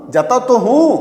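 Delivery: teacher stressing तो for emphasis; emphatic stress. Shown as a demonstration. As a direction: insist on जाता तो हूं. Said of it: "मतलब जोर लगा के बोलना".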